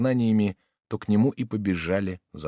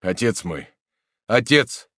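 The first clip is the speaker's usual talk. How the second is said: anxious calling; 3 semitones higher, 6 dB louder than usual. A narrator's reading. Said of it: "спросил маршал".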